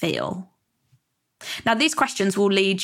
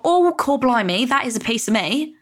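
British mayor voice; 4 semitones higher than usual. Pretend. Viewer reacting to the FIRE movement, in a mock British accent. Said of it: "you sound like a, a British mayor".

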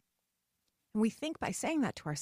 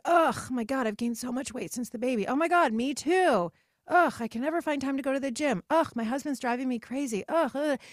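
loud, higher, groaning complaints; mock whiny griping; 4 semitones higher, 5 dB louder than usual. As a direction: ham up a chorus of moaning women. Women griping together, mocked.

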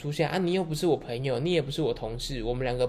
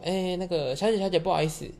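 calling out; 5 semitones higher than usual. Retold or imitated. Calling after customer leaving.

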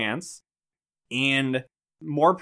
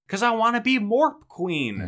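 mock mean girl; 8 semitones higher than usual. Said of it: "She's like".

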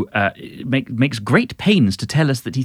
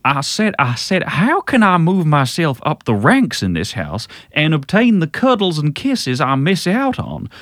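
Foghorn Leghorn; 5 semitones higher than usual. Pretend. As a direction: ham up the Southern cartoon rooster voice. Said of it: "do a bit more Foghorn Leghorn then".

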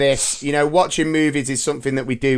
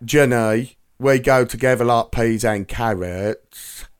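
put-on Forrest Gump accent; 5 semitones lower, slower than usual. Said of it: "I reckon I could do".

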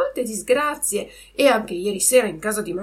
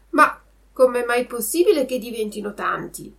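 amazed; 4 semitones higher, 5 dB louder, faster than usual. Acted. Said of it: "restando a bocca aperta dallo stupore".

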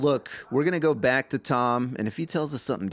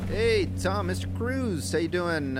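calling a greeting; 5 semitones higher, slower than usual. Acted. Officers call out greeting to star.

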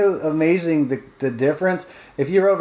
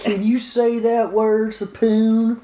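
mock Japanese accent; 7 semitones higher, much slower than usual. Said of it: "friend voicing Trish at restaurant".

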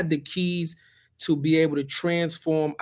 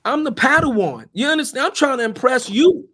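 heated and raised; 5 semitones higher, 3 dB louder than usual. Real, not acted. Emphatic account of trying to impress.

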